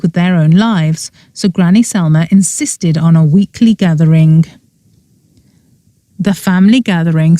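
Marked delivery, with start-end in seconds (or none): 6.2-7.4 firm. Acted. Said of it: "said Allegra firmly".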